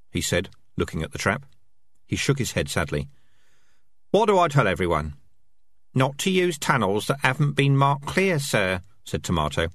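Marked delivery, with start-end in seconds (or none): 4.1-9.7 higher rat voices, chattering; squeaky rat chatter. Acted. Rat squad bickering over dead Fresh, higher. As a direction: voice the rats, pitched up.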